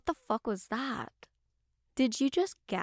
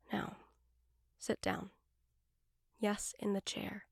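ordinary talk

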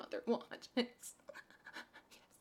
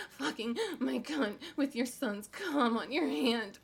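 ordinary talk

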